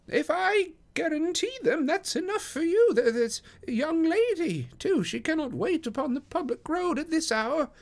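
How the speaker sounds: very high-pitched, fussy little gentleman; Thaddeus Sholto. Acted. Guest answering the porter at the door, high-pitched character voice. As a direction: pitch it right up, mildly put out.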